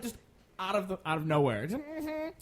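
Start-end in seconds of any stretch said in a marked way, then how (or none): 1.7-2.3 put-on black girl voice. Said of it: "doing the black girl voice".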